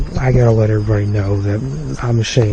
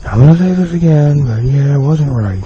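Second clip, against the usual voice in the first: retake, louder; 4 dB louder than usual. Shown as a demonstration. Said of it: "make sure the mic's close, and here, here we go".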